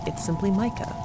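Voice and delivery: ordinary delivery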